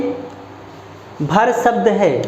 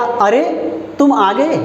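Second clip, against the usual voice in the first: surprised; 3 semitones higher than usual. Shown as a demonstration. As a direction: sound taken aback, pitch climbing. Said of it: "अब आप चकित हो रहे हैं". (चकित होकर बोलना)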